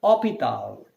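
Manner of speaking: hôpital with no s, o then pital; hôpital, the s silent, French vowels. Shown as a demonstration. Teacher gives the French word for hospital. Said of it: "which is in French called as".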